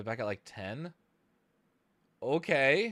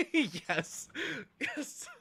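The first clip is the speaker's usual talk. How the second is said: yes squealed much higher in delight; excited yes; 13 semitones higher than usual. Real, not acted. Streamer nails the clap pattern, squealing excitedly. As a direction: squeal with joy at getting it right. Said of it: "I got really excited over getting that pattern correct".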